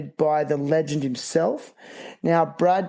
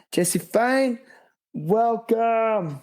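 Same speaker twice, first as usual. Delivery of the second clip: high, bright host welcome; enthusiastic welcome; 5 semitones higher, much slower than usual. Real, not acted. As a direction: welcome him in with energy.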